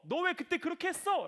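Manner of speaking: scolding. Acted. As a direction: scold them for what they did back then. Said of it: "뭐라고 한 게 아니라". (다그치며 나무라는 말투)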